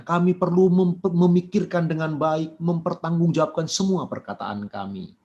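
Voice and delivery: earnest, measured congregational prayer. Acted. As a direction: lead the church in prayer. Leads closing prayer. (doa penutup yang khidmat dan tulus)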